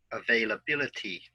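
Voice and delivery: "availability" with the stress on BIL: a-vail-a-BIL-i-ty; "availability" modelled for students, BIL stressed; model word stress. Shown as a demonstration. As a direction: say "availability" clearly and hit the fourth syllable BIL. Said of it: "listen and repeat after me".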